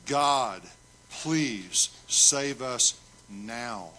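drawn-out, emphatic plea; slow, pleading cry to God; emphatic begging. Shown as a demonstration. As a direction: beg slowly, leaning on each word. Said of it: "It's begging".

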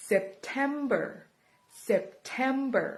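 "September" with "TEM" stressed; stress on second syllable. Shown as a demonstration. Teacher showing learners where "September" is stressed. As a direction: lean on "TEM" in "September", drawn out slowly. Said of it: "เน้นพยางค์ที่สอง".

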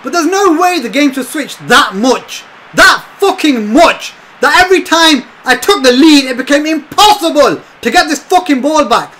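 loud, high heated complaint; bitter shouted rant; angry rant. Real, not acted. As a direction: vent at the game. Ranting about game balancing.

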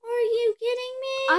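high exasperated cry; exasperated disbelief. Real, not acted. Girl to her sister after the explosion, exasperated. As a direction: throw the question up in disbelief. Reacting to destroyed build.

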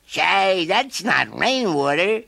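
high, curious voice; puzzled caterpillar. A narrator's reading. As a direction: wonder aloud. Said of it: "said the caterpillar".

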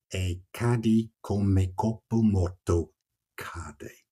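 slow, measured recital of verse; poetry reading in Italian. Shown as a demonstration. Poet reciting Dante to his listener, slow and solemn. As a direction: read the Italian lines slowly and gravely. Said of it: "It ends".

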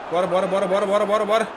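urging through laughter; laughing. Real, not acted. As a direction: laugh as you push them on.

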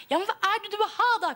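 fast, high, loud pleading; mother pressing her silent daughter, fast and high; exasperated mother. Acted. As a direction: rush the question out in frustration. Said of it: "sa moren".

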